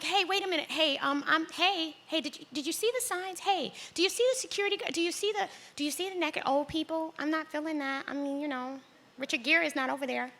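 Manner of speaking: high, fast, fretful calling after her; high anxious pleading. Retold or imitated. Daughter begging her running mother to stop, high and anxious. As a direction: plead like a nervous kid.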